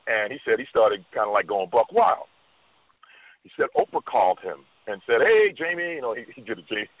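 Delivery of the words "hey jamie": lightly voiced impression, higher-pitched hail. Retelling a talk-show host's call to the actor, lightly imitated. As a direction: imitate a big, high-pitched greeting. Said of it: "he did an impression".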